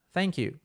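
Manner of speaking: "thank you" com língua entre os dentes no TH, mais suave; TH correto. Shown as a demonstration. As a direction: mostra o som TH de "thank you" com clareza. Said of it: "tem esse T H aqui no começo". ("thank you" com TH interdental)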